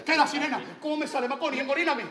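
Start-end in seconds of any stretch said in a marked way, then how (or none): 1.6-2.0 mounting, hyped-up pleading; building urging. Acted. Eggs Maconi on, building up.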